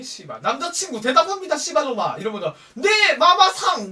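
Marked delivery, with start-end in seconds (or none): 0.4-2.2 loud, high mock military command; army-style order. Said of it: "무슨 군대니". 2.7-3.9 loud, high, drawn-out mock answer; military-style reply. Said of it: "이러면서 대답하는 것도 아니고".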